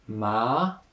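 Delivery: "ma" rising, second tone. Shown as a demonstration. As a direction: lift "ma" upward like a question. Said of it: "second tone".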